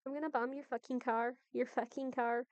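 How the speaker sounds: put-on Irish accent sliding toward Australian; mixed Irish and Aussie accent. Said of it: "into more of an Australian".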